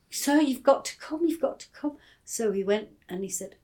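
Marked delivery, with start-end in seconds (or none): 0.1-2.0 put-on higher, urgent child pleading; a child begging sir to come and see; excited child calling. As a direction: call the teacher over, eager and high. Child calls headmaster to the field.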